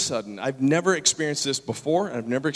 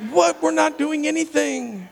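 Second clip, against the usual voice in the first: high-pitched, drawn-out disbelief; acted incredulous squeal; baffled protest; 13 semitones higher, 4 dB louder, slower than usual. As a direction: protest innocence in mock astonishment.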